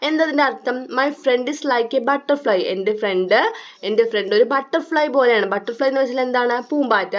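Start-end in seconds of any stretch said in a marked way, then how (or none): 1.0-2.6 reading the poem very slowly, word by word. Acted. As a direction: read each line slowly for young pupils. Rereads line slowly.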